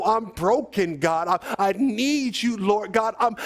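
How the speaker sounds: pleading prayer, not screamed; preacher acting out a desperate prayer; acted crying out. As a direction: beg God with drawn-out key words. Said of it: "You gotta scream and let the Lord know".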